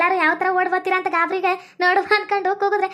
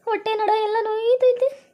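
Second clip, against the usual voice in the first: mildly acted tummy-ache wail; a touch of tearful complaint; pained whining. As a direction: moan lightly, as if your belly hurts. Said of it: "ಅಳ್ತಿದ್ಯಲ್ಲ, ಯಾಕೆ".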